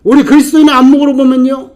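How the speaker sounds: loud, high, impassioned preaching; preaching at full force. Acted. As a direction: drive it home like a revival climax. Preacher climax.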